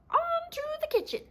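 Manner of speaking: high triumphant call; triumphant cry. Acted. Fox driving off with captives, high triumphant cry. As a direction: crow it out in victory. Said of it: "and cried".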